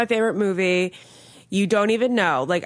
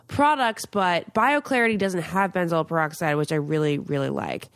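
upbeat sponsor read. Acted. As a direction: sell it like a host ad. Sponsor read for acne product.

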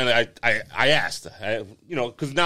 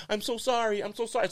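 soft mock apology; 7 semitones higher, 9 dB quieter than usual. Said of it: "And she's like".

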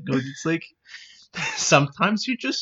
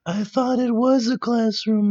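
higher dopey cartoon voice; higher goofy cartoon flunky voice; cartoon sidekick voice; 9 semitones higher than usual. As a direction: play the dim board member raising a hand. Member in silly voice.

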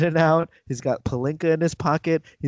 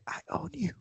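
soft, higher-pitched mock threat; quiet menace; 8 semitones higher, 12 dB quieter than usual. Host acting LeBron to his new coach, hushed mock threat. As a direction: say it hushed, for his ear only. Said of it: "LeBron's gonna just say".

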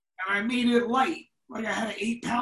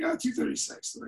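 sneaky whisper; 4 dB quieter than usual. Retold or imitated. Faking a hotel room number.

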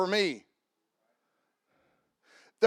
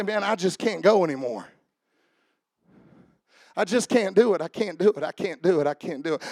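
worn-out giving up, sinking lower; acted exhaustion; 4 semitones lower than usual. Pastor voicing a man too tired to go on, acted exhaustion. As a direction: repeat it wearily, losing pitch and strength each time. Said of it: "how tired you'd have to be to say".

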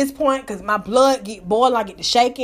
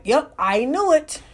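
knowing; 3 semitones higher, slower than usual. Retold or imitated. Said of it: "I'm gonna be like".

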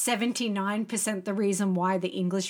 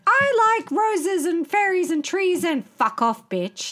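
shady; 10 semitones higher, 5 dB louder than usual. Retold or imitated. Host imitates a singer's shady blog post, sugary then cutting. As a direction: gush sweetly, then drop the insult. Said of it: "a shady thing that was basically like".

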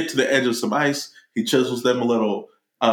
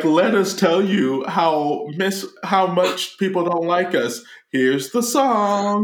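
high slow mock toy voice; 7 semitones higher, slower than usual. Misfit toys introducing song.

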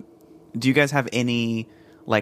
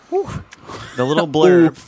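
mock dramatic read; 6 semitones higher, 6 dB louder, much slower than usual. Reading the beer blurb aloud.

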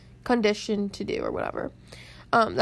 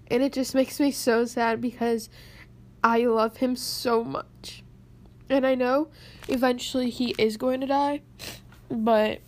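real crying. Real, not acted. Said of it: "I'm cr-, literally crying".

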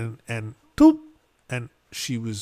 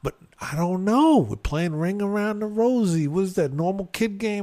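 much higher, louder demanding questions; accusing wife; 9 semitones higher, 7 dB louder than usual. Retold or imitated. Wife grilling husband after child's injury, high and loud. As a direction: hammer him with suspicious alarm. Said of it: "frantic wife again".

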